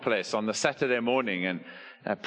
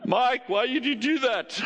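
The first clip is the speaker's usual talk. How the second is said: laughing question; 11 semitones higher than usual. Retold or imitated. Preacher laughing as he asks the pastor why. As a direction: blurt the question out mid-laugh.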